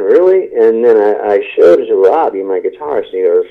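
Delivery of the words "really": high incredulous really; mock the bandmates' disbelief; rising skeptical question; doubtful surprise.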